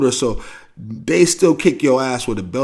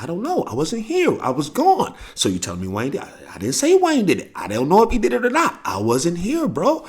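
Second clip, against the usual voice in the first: mock pleading kid; 7 semitones higher than usual. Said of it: "I'm like".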